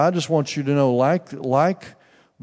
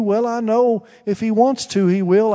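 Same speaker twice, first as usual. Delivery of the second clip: put-on old aunt voice; 8 semitones higher, 3 dB louder than usual.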